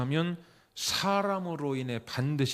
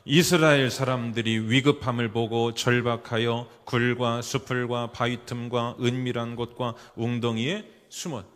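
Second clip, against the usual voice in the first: steady chanting read-aloud for a congregation; measured, declaimed Bible verse; scripture reading aloud; 5 dB louder than usual. Real, not acted. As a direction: read the verse out evenly, leading a group.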